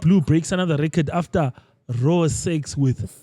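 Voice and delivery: slow, measured headline delivery; verbatim reading. Real, not acted. Host restarts the post for the group, slow verbatim reading. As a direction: read it out deliberately, drawing out the ends. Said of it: "I'm gonna read this verbatim".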